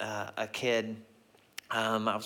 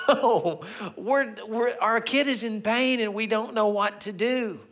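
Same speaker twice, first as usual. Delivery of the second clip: high, loud, stammering mock plea; acted desperation; 10 semitones higher, 4 dB louder than usual. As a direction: plead comically like a parent at wit's end. Imagined desperate plea to the stranger.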